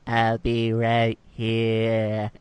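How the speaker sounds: put-on slow slurred old lady; drunk old lady. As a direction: slur it like a tipsy granny. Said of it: "You sound like a drunk old lady".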